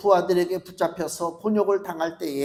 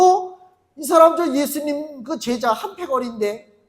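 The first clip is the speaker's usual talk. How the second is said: higher, louder surprised accusation; servant girl accusing; 6 semitones higher, 4 dB louder than usual. Acted. Another servant girl exposing Peter, loud and surprised. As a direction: catch him out, loud.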